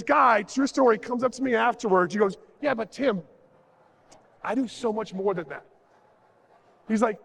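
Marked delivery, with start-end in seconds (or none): 2.6-5.6 lower, softened imitation of a confider; confiding. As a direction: let on a secret, mock-discreetly. Audience member confides a password trick.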